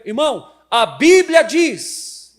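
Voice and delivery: loud, high, slow declaration. Retold or imitated. Pastor retells confronting a church member, loudly. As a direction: lay down the law. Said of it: "Eu levantei a voz".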